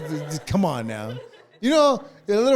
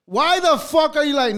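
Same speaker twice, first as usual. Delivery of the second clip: higher, sharper, exasperated; exasperated demand; 4 semitones higher than usual. Real, not acted. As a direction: fire it back angrily. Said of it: "What I'm saying is".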